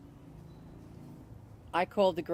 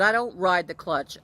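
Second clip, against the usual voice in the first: "I don't ride the clutch" said louder and firm; firm denial; 6 dB louder than usual. Retold or imitated. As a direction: push back at the mechanic firmly. Denying mechanic's blame on phone.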